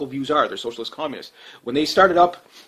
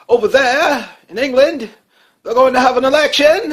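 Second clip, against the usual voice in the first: mock English accent; 10 semitones higher, 7 dB louder than usual. Telling viewers about England's election, in a mock English accent. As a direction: put on a hammy English accent. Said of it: "I don't know if they actually talk like that".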